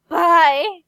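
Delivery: loud, high bye; shouted goodbye. Real, not acted. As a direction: yell it out the door. Yelling goodbye to Yasmin.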